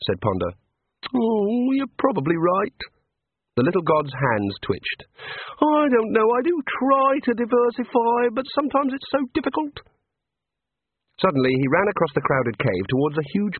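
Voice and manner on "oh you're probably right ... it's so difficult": quiet despair. A narrator's reading. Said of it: "stared glumly".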